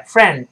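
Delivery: "friend" stopped on the d without a puff; unreleased d. Shown as a demonstration. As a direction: hold the breath at the end of "friend". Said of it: "没有喷出来".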